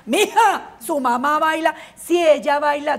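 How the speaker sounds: put-on a young daughter nudging her dad; mild kid voice; little girl voice. Girl voiced in family story.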